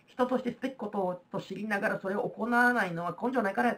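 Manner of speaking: put-on plain-spoken Kansai-accented paraphrase; Kansai dialect. Teacher rewords Confucius for students, in Kansai dialect. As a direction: explain the old saying in blunt Kansai dialect. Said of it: "関西弁になってますけど".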